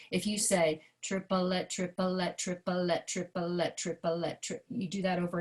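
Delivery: triplet, triplet said evenly; even unstressed triplet chant. Shown as a demonstration. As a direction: say triplet with equal weight on each syllable. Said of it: "let me show you what that means".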